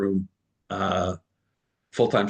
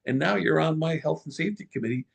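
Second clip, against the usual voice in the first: higher lively orders; animated boss; 7 semitones higher than usual. Retold or imitated. Boss putting her on the safety committee, lively and higher. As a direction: pile on the new duties. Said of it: "And I said".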